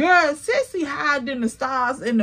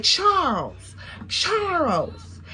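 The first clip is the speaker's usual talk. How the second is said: high calling out name; 5 semitones higher, 3 dB quieter, much slower than usual. Retold or imitated. Friend calling into phone.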